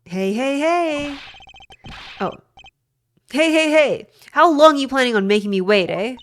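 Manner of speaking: loud, high brash Canadian guy; Canadian accent. Acted. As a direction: shout it like a rowdy Canadian. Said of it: "Is this guy Canadian?".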